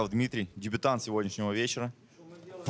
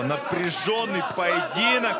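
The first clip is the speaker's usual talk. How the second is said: excited commentary; 7 semitones higher than usual. Real, not acted. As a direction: ride the rising tension of the round. Commentator at the end of the round. (азартный комментарий)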